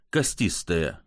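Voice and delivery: plain reading voice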